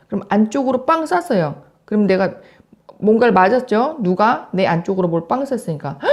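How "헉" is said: mock gasp of shock; startled gasp. Teacher demonstrating an interjection for students, startled gasp. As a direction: gasp as if suddenly hit. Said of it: "하고 놀래죠?".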